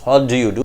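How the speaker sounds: "What do you do" with "do you" separate; full form. Shown as a demonstration. Teacher reads out the sentence before converting it, unlinked. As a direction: say every word of "What do you do". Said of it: "when they speak out this sentence".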